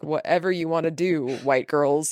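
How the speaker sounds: low, unbothered dismissal; shrugging indifference. Retold or imitated. Bus driver giving in to the missionaries, indifferent and low. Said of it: "like, shrugged".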